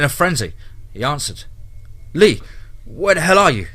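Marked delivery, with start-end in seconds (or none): 2.1-3.7 higher, louder frantic yell; yelling into phone. Acted. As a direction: shout down the phone for help. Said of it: "he yelled".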